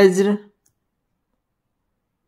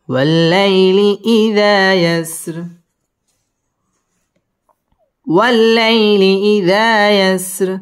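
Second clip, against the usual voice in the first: slow chanted recitation with rounded و; Quran recitation; 2 semitones higher, slower than usual. Shown as a demonstration. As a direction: stretch والشفع والوتر slowly like tilawat. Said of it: "ওয়াও ঠোঁট গোল করে উচ্চারণ করতে হবে".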